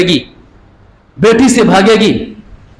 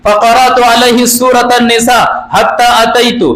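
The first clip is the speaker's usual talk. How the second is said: steady, even recited Arabic, measured cadence; Arabic hadith recitation; 4 semitones higher than usual. Acted. Preacher quoting the hadith in original Arabic, steady recitation. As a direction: recite the hadith text evenly.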